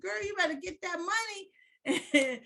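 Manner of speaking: high, slow, stretched-out cheer; imitated excited husband. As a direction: egg her on as the husband, drawn out and high. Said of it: "And he was like".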